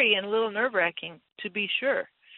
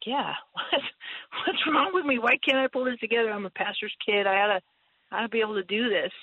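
exasperated self-questioning; 3 semitones higher than usual. Retold or imitated. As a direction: berate yourself half laughing. Frustrated self-talk about being introverted.

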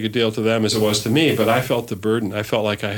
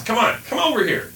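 outside voice; 12 semitones higher than usual. Retold or imitated. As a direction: call the kids in from across the yard. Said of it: "that's my outside voice".

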